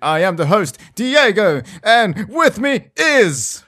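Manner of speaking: overly enthusiastic show opener; enthusiastic intro. Real, not acted. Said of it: "it sounded like something was wrong with you".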